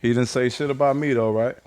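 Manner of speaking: aggressive. Real, not acted. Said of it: "my aggressive side is stepping forward".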